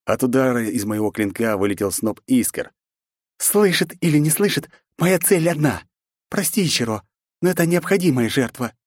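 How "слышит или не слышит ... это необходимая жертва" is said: princess voice. Acted. The speaker voiced, high.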